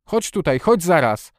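high, urgent command; shouted order. A narrator's reading. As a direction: call him over at once, insistently. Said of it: "krzyknął na Dicka".

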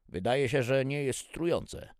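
high, loud figure voice; tester's verdict. A narrator's reading.

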